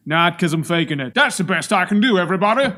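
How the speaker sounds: badly faked generic American accent; fake American accent. Introducing himself to viewers with a faked origin, fake American accent. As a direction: put on a clumsy American accent. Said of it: "watched an American talking before I tried to do that".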